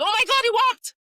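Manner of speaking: high, loud thrilled cry; squealing parent at baby's first steps; excited parents. Retold or imitated. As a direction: gush like a proud parent.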